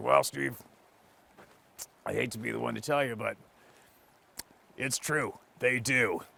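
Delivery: rough-edged, gruff doctor-like voice. Retelling what the doctor told you, in a pretty gruff voice. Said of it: "he had a pretty gruff voice".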